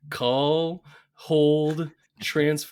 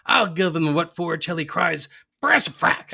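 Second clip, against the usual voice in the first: lightly voiced indignant old mother; an ancient mother fuming about her son; old woman's scolding. Burns's mother scolds her absent son, lightly voiced old woman. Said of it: "a hundred and twenty-four-year-old woman".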